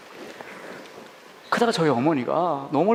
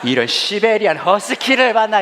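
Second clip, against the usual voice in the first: high, loud, drawn-out mock swearing; imitating mom's angry outburst; cursing mother; 7 semitones higher, 5 dB louder, slower than usual. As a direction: curse your son out with relish. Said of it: "저한테 욕을 해대기 시작하시더라고요".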